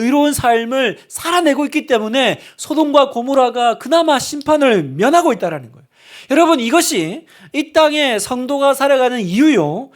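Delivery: 힘찬 설교; fervent preaching. Real, not acted. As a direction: drive the point home to the church. Preaching at full force.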